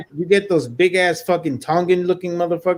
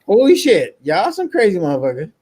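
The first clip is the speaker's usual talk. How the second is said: mock amazement; 4 semitones higher than usual. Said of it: "I'm like".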